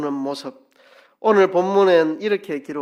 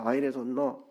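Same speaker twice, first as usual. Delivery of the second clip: softer Gyeongsang dialect echo; 경상도 사투리로 조용히; 6 dB quieter than usual. Shown as a demonstration. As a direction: murmur it once more in Gyeongsang dialect. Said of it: "그 말입니다".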